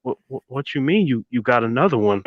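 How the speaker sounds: a hint of a soft, stammering teen; younger self's voice. Teenager questioning a drill sergeant, lightly imitated stammer. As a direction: stumble over the opening word, softly. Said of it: "it sounded kinda like this".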